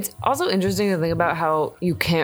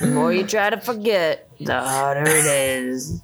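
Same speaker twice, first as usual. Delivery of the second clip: put-on dusty old cowboy. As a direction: talk like a weathered old cowpoke. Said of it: "a dusty old cowboy voice".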